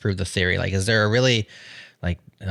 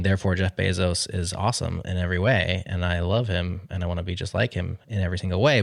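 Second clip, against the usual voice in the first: mock gushing fan. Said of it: "with a broad brush saying".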